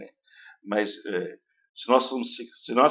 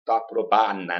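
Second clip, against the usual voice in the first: Italian-style reading; 2 semitones lower, slower than usual. Retold or imitated. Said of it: "vai falar como italiano".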